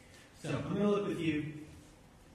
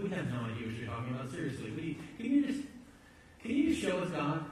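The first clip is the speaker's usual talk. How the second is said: a baffled follower pleading to be shown; exasperated disciple; 2 semitones higher, faster than usual. Retold or imitated. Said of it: "Thomas looks at him and goes".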